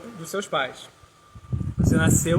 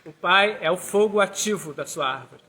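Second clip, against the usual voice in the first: slow, emphatic teaching delivery; slow down and spell out the point firmly; measured explanation, each key word given weight; deliberately slow; 2 semitones higher, 4 dB louder than usual. Real, not acted. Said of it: "vou falar devagar".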